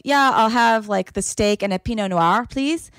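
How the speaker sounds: Pinot Noir said in proper French; French pronunciation. Retold or imitated. Imitating French-speaking friend ordering, French Pinot Noir. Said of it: "they both speak French fluently".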